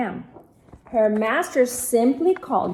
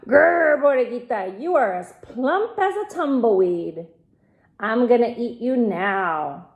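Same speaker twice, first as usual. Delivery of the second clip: growling coyote. Acted. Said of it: "He growled".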